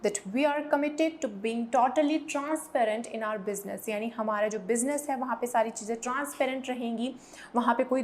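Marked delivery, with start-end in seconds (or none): 0.2-3.9 slow, careful quote of the company pledge; slow example sentence. Shown as a demonstration. Teacher quoting the new company's pledge to staff, slowly. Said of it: "वो क्या commitment देते हैं अपने पूरे staff को".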